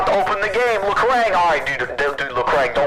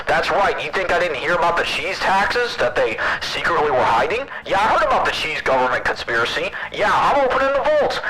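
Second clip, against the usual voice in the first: hammed-up president speech through a voice changer; voice changer governor; 4 semitones higher than usual. Streamer plays president for a day through a voice changer. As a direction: grandstand like a goofy politician on a pitch-shifted mic. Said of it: "let me get a voice changer thing".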